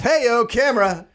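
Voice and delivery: high cheerful call to camera; showy poser. Retold or imitated. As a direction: play up for the photo. Doctor posing for photo.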